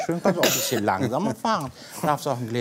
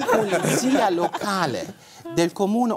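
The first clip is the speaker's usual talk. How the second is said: laughing while reading; 7 semitones higher than usual. Real, not acted. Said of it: "Sollen wir derweil schon mal rausgehen".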